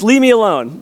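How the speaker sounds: mock child yell. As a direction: imitate the little girl shooing dad away. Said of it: "she says".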